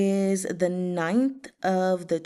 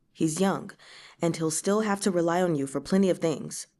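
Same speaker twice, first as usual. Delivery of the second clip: reassuring. Acted. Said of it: "comforting him".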